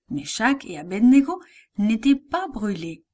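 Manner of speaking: plain reading voice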